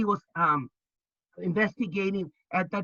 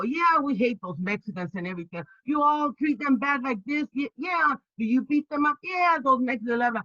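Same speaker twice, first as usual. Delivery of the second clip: mock Southern growers, pitched high; Southern accent; 5 semitones higher than usual. Investigator imitating growers in Southern accent. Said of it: "Southern accent".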